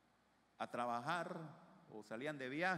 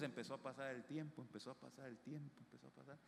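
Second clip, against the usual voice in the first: steadily fading to very soft; fading repetition; 7 dB quieter, faster than usual. Retold or imitated. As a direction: repeat it, getting softer each time. Time dragging on, repeated and fading.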